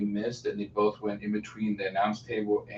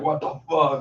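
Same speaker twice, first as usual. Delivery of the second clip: retold anger; 6 semitones higher, 5 dB louder than usual. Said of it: "he looked mad".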